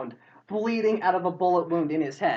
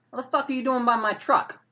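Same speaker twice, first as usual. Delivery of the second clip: higher-pitched mock confrontation; acted indignant challenge; 8 semitones higher than usual. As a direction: call out accusingly, pitched up. Driver challenges intruder at truck.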